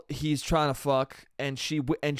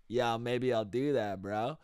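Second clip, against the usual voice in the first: low, slow, quiet mumble of a guy; soft, lazy low-pitched impersonation; a rapper impression; 6 semitones lower, 7 dB quieter, slower than usual. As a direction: play it low and laid-back, drawn out. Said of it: "that's my Drake".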